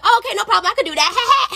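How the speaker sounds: high, eager and chirpy; gleeful agreement. Retold or imitated. Server asked by friend to expose them, gleeful. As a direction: jump at the mission with glee.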